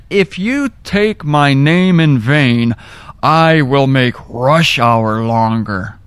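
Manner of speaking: slow, solemn divine pronouncement; billboard voice of God. Acted. Preacher quotes a billboard credited to God, slow pronouncement. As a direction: read it out slowly as a decree. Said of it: "there was a billboard that said".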